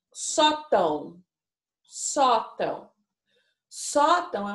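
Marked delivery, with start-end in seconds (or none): 0.1-1.2 sótão drawn out slowly, syllable by syllable; slow syllable-by-syllable reading. Shown as a demonstration. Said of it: "a gente tem aqui". 1.8-2.9 sótão said again slowly, level and clear; slow clear repeat. Shown as a demonstration. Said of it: "a gente tem aqui".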